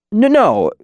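high, flustered protest; stammering hastily. A narrator's reading. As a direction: rush it out in a panic. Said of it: "Chronicler stammered hastily".

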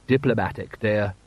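meek, subdued henpecked reply; henpecked husband. A narrator's reading. Husband answering his wife's instructions, henpecked. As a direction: give in obediently, without any spirit. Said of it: "You're using your henpecked voice".

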